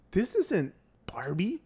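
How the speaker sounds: breathy mock whisper of a disappointed child; whispered kid complaint. Kid unhappy with a toy, mock whisper.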